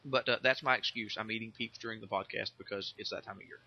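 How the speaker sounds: chewing while talking; mouth full. Real, not acted. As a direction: talk through sugary candy. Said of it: "You can probably hear me chewing".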